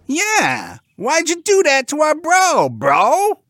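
high, loud bro-talking pig; loud squeaky indignation; indignant pig. Acted. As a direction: challenge your brother like a cartoon pig. Pig challenges his brother.

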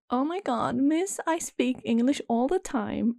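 mock high-pitched reproach; imitating nasal friend. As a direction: drag it out like the annoying friend. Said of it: "her voice is very nasal".

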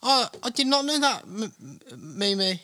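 high, nerdy put-on voice; nerdy Mimi impression. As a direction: squeak it out like a know-it-all. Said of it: "that was mimicry of Mimi".

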